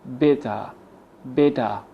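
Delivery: "Better" ending in uh, no R; schwa for ER. Shown as a demonstration. Teacher replaces E R, "Better" with final schwa. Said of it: "the E R replaced with a schwa sound".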